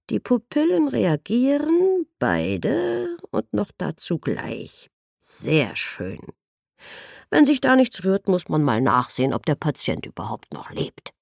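a hint of a chipper, blunt physician; breezy and pleased with himself; lightly voiced cheerful doctor. Company doctor chatting to his patient while checking her eyes, lightly voiced and breezy.

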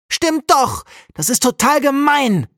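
put-on high, loud furious child yell; bellowing. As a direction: yell it back at her in a rage. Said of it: "brüllt Jakob".

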